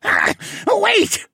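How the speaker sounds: high, loud panicked plea; begging. A narrator's reading. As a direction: beg for mercy. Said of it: "the penguin begged".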